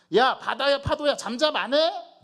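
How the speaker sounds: very loud, very high, shrill scolding shout. Imagining Jesus scolding the sea and waves, mock-angry shouting. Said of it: "이렇게 호통을 쳤을까?".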